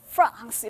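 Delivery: 프랑스 drawn into English "France"; English "France", f sliding into r; English pronunciation. Shown as a demonstration. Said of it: "이렇게".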